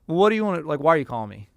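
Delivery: curt, impatient questioning; blunt impatient attitude. Retold or imitated. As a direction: bluntly demand what he wants. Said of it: "do you think he really said with that attitude".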